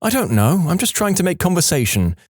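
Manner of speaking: lightly voiced girlfriend, high pitch; a hint of a high female character; girlfriend talking in sleep. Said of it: "and she said".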